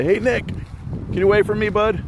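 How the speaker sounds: high, playful shooing of son. Real, not acted. Shooing son away mid-lesson.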